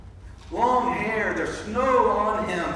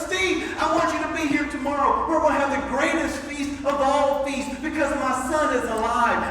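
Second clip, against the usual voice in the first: excited; 3 semitones higher, 3 dB louder than usual. Retold or imitated. Calling friend to host feast.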